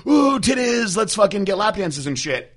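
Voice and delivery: high, loud dumb excited squeal; mock horny bro. Mocking clubgoers at the strip club, high loud squeal. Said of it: "I'm not like".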